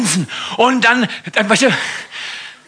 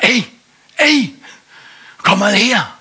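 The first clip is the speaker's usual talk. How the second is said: frecher Papagei; 3 semitones higher than usual. Acted. Papagei ruft.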